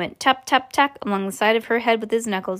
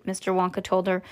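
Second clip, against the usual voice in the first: ordinary delivery, nothing marked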